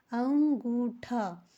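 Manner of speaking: अंगूठा drawn out very slowly, each syllable clear; slow repeat. Shown as a demonstration. Teacher repeating the word for her students, slow and clear.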